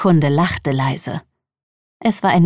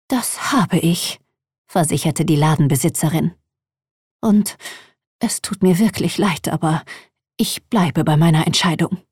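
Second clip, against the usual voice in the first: put-on hushed old shopkeeper. A narrator's reading. Voices Madame Wu, hushed.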